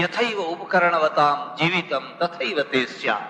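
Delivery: slow recited Sanskrit verse; verse recitation. Shown as a demonstration. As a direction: intone each word of the shloka slowly. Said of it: "એ જ વાતને બીજી રીતે કહે છે".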